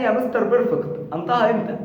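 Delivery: imitating a student asking; student's question. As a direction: call out a question like a pupil to the teacher. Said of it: "يجي لي واحد كده يسألني".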